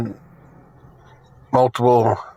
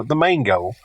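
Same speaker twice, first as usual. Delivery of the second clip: Southern "the main goal" run together so it sounds like "mango"; Southern drawl "the main goal" slurred like "mango"; thick Southern accent. Shown as a demonstration. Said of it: "Southern accent's so thick that you hear it".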